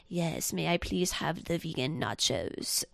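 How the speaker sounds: slow, measured pretend in-character order; imitating Nicole Kidman in character. Actress in character talking to the waiter, imitated in-character voice. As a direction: play an actress ordering food, slowly, never breaking character. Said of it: "like, in a bad Russian accent".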